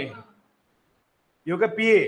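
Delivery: drawn-out sounding of the syllable पीए; slow spelling out. Shown as a demonstration. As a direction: stretch पीए slowly for the pupil. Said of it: "पे मतलब वही salary वाला पे".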